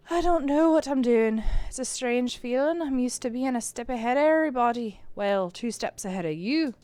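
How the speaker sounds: lightly put-on Irish accent; a rough go at Irish. McMurphy confessing to Kara, slight Irish accent. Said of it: "maybe my Irish accent will get better".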